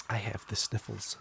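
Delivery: hoarse under-the-weather voice; sick voice. Real, not acted. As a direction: talk with a cold. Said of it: "the sick voice".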